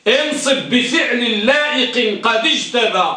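slow recital of the rule verse, stressing انصب; slow teaching verse; recited verse. Shown as a demonstration. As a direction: chant the mnemonic line slowly. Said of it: "احفظوا هذا البيت".

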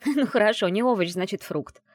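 amused, starting high and loud with a laugh; chuckling concession. A narrator's reading. Friend teasing about the witch hunter, chuckling. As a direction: give in with a joking chuckle. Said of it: "хохотнула Аяла".

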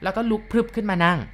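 ordinary delivery

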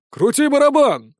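high, loud yell from a bystander; loud heckling shout; shouted from the crowd. Acted. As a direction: bark it out from the crowd. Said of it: "выкрикнул кто-то из толпы".

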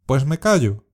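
a touch of offended annoyance; annoyed. Shown as a demonstration. Teacher modelling a mildly annoyed retort for learners. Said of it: "expresando enfado".

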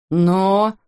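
a short sharp bark of a father's order; a hint of an angry father barking. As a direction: snap the single word at the son. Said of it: "рявкнул Саймон на Пола".

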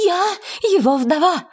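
high anguished cry; terrible cry. Acted. Widow cries out at the lady, high anguished shriek. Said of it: "вскричала Эмилия страшным голосом".

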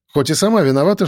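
usual speaking voice

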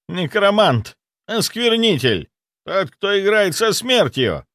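brand him a defiler; venomous accusation. A narrator's reading. Zaitsev denouncing the necromancer with venom.

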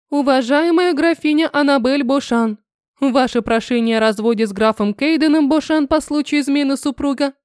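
strict, clipped official announcement; stern official letter voice. Acted. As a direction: rap it out like a court clerk. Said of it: "отчеканил строгий женский голос".

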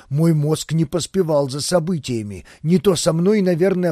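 plain reading voice

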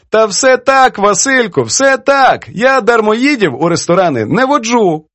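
put-on high-pitched, playful reproach from an elderly poetess; teasing old poetess. Poetess chides her young editor over his edits, teasing.

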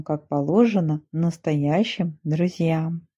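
plain reading voice

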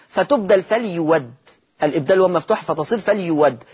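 فليود said "falyuwaddi" with an open waw in place of the hamza; hamza changed to waw. Shown as a demonstration. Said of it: "لاحظوا الهمزة ... فتبدل".

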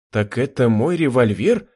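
plain reading voice

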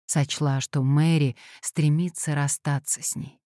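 ordinary delivery

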